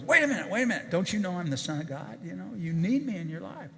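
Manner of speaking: high pleading wait a minute, then a pushy sell; mock whiny insistence; mock needy plea. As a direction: play a needy, pushy salesman Jesus. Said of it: "he goes".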